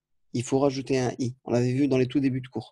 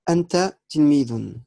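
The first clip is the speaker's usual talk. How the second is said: clear reading; 2 semitones higher, 5 dB louder than usual. Shown as a demonstration. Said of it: "reading the example sentence".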